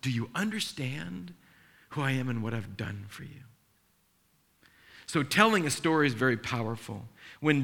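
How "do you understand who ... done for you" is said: gentle God voice. Retold or imitated. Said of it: "God reaches down and says".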